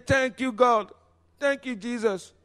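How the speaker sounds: mock American-accented praise; American English accent. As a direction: give thanks in a high American accent. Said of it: "avec un accent anglais américain".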